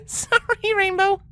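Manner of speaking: giggling apology, high; tittering. Acted. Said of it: "Twilight tittered".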